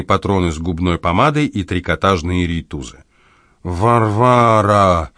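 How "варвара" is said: drawn-out slow name, said through the nose; long nasal plea; nasal call. A narrator's reading. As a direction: moan her name slowly through the nose. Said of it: "сказал Лоханкин в нос".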